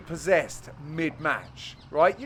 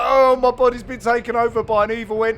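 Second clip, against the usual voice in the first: mock possessed man; 5 semitones higher, 7 dB louder, faster than usual. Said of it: "He's like".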